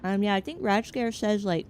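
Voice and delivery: talking with mouth full. Real, not acted. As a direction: speak around a bite of egg. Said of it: "sorry, talking with my mouth full".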